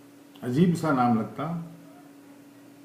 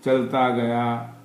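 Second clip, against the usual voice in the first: measured recital in short, paused phrases; poem recitation; 5 dB louder, slower than usual. Acted. Poet reciting to listeners about a stopped clock, poem recitation. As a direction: recite free verse line by line, letting each phrase land.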